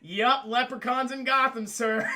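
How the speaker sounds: loud, indulgent echo; mock humouring butler. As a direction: play along with the boss, sceptically. Retold Alfred humouring Batman.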